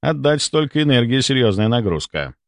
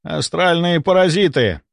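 higher, lightly alarmed tone; trembling voice; 6 semitones higher than usual. A narrator's reading. Doctor confirming astral parasites, mildly fearful. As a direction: state it with mild dread. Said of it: "констатировал доктор Мелехов дрожащим голосом".

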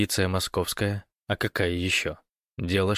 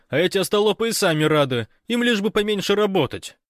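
high, loud breathless report; excited Fyodor on the phone; 8 semitones higher, 5 dB louder than usual. Acted. Fyodor reporting the invasion to Gosh by phone, excited. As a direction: rattle it off, caught up in the drama.

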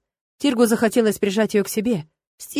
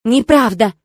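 loud, outraged denial; loud shocked protest; indignant gasp; 2 semitones higher, 7 dB louder, slower than usual. A narrator's reading. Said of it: "возмущённо ахнула Ирма".

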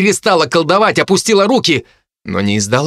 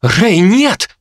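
alarmed cry; 6 semitones higher than usual. Acted. Jo cries out to Ray.

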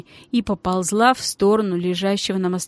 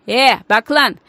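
loud, sharp command; a touch of menace, louder; sharp order; 3 semitones higher, 5 dB louder than usual. Acted. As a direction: snap the warning at the thug. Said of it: "тон говорившего изменился, стал резким".

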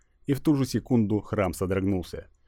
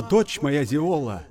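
booming goddess voice; 7 semitones higher, much slower than usual. Acted.

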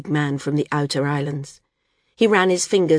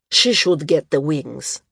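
grumbling; 4 dB louder, slower than usual. Acted. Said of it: "the outer islander grumbled".

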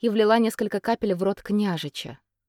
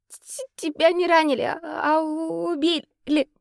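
high, stuttering tearful voice; stammering through tears; 9 semitones higher, slower than usual. Acted. Katerina sobs to Radko that he was killed, stammering. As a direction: choke the words out crying. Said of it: "сквозь слёзы, заикаясь".

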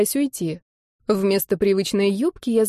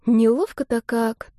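wistful; 2 semitones higher, slower than usual. Acted. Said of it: "тоскливо пронеслось в голове".

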